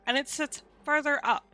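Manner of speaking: high nasal head voice; lifted childlike head voice. Shown as a demonstration. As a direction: pitch it up into the nose. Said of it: "I will demonstrate".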